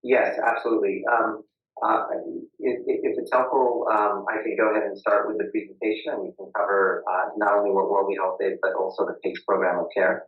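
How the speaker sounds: tinny, muffled line; like speaking into a tin can; talking into a can. Real, not acted. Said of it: "talking into a can".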